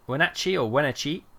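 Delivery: WENATCHEE said two ways, unsure which is right; trying two pronunciations. Shown as a demonstration. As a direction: try Wenatchee one way, then another. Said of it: "I don't know how to pronounce this stuff".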